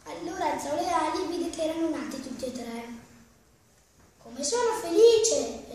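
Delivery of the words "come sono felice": louder, slower happy cry; joyful exclamation. Acted. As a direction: burst out with a mother's joy. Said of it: "esclamò".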